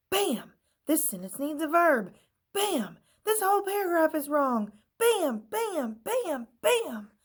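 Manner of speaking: high, loud gleeful bams; gleeful stapling. A narrator's reading. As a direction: stamp each bam with glee.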